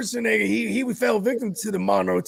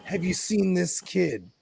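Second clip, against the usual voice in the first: slow, lower questioning; quoted movie cop; 4 semitones lower, 6 dB quieter, slower than usual. Retold or imitated. Quoting the Terminator asking around for a kid, slow questioning. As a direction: slowly ask it like a cop on the hunt.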